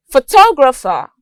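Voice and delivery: "photographer" stressed on its second syllable; stress on TOE. Shown as a demonstration. Teacher showing word stress, "photographer" weighted on the second syllable. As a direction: lean on TOG in "photographer". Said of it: "The stress is on toe".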